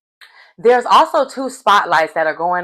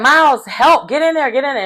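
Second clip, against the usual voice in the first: raised-pitch pleading for help; urgent, higher-pitched mock appeal; retold urging; 6 semitones higher than usual. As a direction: imitate teammates urging him in. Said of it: "And they're like".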